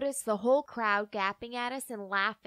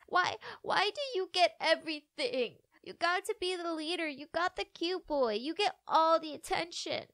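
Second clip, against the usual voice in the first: tearful; 4 semitones higher than usual. Acted. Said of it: "Daisy stuttered through tears".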